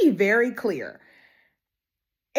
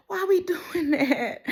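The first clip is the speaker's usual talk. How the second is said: laughing complaint; 8 semitones higher, 3 dB quieter than usual. Real, not acted. Complaining about the labor plot.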